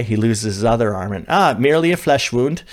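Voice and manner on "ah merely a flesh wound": mock British knight, lightly put on; a bad British accent, hammed up; terrible British accent. A coach doing a bad British accent as the Monty Python knight. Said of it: "Terrible British accent".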